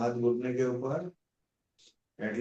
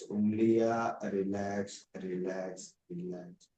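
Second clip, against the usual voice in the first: guided relaxation. Acted. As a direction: ease the class down limb by limb. Yoga teacher leads shavasana relaxation.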